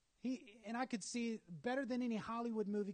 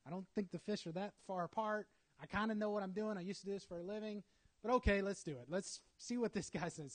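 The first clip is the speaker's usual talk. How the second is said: skeptical fisherman. Retold or imitated. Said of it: "I could just imagine standing there going".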